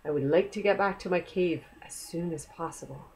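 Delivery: hushed, modest go at a Scottish accent. Shown as a demonstration. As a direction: say it quietly with an amateur Scottish accent. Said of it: "say that with a Scottish accent".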